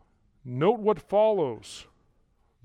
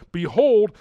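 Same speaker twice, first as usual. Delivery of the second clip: BEHOLD loud and raised; emphatic proclamation; 6 semitones higher, 10 dB louder than usual. Real, not acted. Preacher anticipating something great, emphatic proclamation. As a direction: burst out on "behold" as a herald would.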